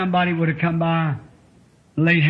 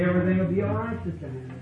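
soft reassurance; 5 dB quieter, faster than usual. Shown as a demonstration. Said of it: "She say".

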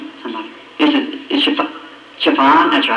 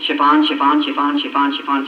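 rote repetition of one word; repeating to himself. Retold or imitated. Husband memorizing his errand on the street, repeating to himself. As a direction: chant it over and over to memorize it. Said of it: "I was going down the street saying".

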